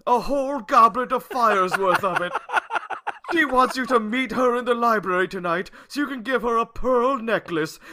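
put-on old wizard. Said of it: "I have to read it in a wizard voice".

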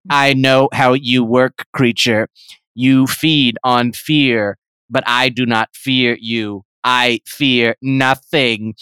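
low, slow grim hero voice; defiant hero. Acted. Bilbo defying the creature, low and grim. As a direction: intone it low like a stoic hero.

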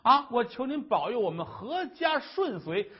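loud, high tearful plea to the Bodhisattva; desperate wife's prayer. Acted. Wife cries out her despair to the Bodhisattva, loud and tearful. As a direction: pour out grief and despair before the statue, voice breaking.

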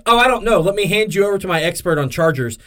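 high, mock-clueless voice; feigned innocence handing off the phone; playing dumb. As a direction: act like you know nothing and pass the call.

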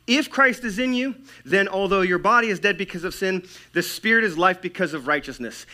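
high, driving preacher's reading; emphatic proclamation. Acted. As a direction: proclaim the verse with force. Proclaiming a quoted Bible verse.

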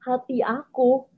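drawn-out, slightly dramatic lament. Retold or imitated. Recalling heartache to listeners, a bit dramatic. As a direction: draw it slowly with a touch of drama. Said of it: "dramatik banget".

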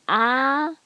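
"ah" sustained on a level pitch; high-level tone. Shown as a demonstration. Teacher showing what the doctor asks, "ah" held level. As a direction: hold "ah" steady, as for the doctor. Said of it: "first tone is high-level tone".

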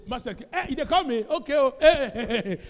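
lightly acted Mary, questioning then laughing; voicing Mary. Preacher voicing Mary answering Jesus's call, laughing. Mary voiced in retold scene.

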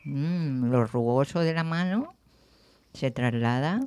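talking with a mouth full of raisin; words round a raisin held in the mouth. Real, not acted. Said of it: "tengo la pasa en la boca".

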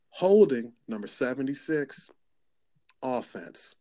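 referee calling a holding penalty; referee announcing penalty. Retold or imitated. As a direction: announce it like a ref on the field mic. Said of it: "the first thing I think to myself is".

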